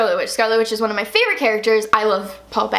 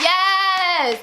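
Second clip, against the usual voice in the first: higher, drawn-out cheer; thrilled reaction; 5 semitones higher than usual. Retold or imitated. Fan loving Mantis's line, thrilled cheer. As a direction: cheer it with fannish delight. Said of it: "I'm like".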